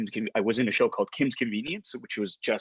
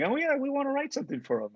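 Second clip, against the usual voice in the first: imitated producers; 12 semitones higher, faster than usual. Imitates producers discussing him.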